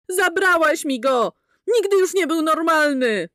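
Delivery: enraged woman wailing accusations. A narrator's reading. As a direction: drag out the blame. Mildred repeats accusation.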